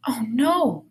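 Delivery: gasped in a whisper; mother's gasped, whispered oh no. A narrator's reading. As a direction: breathe it out in a shocked whisper. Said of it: "gasped Mom".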